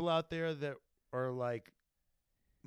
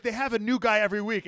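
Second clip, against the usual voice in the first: mock quote; 8 semitones higher, 10 dB louder, faster than usual. Mocking quote of commentators.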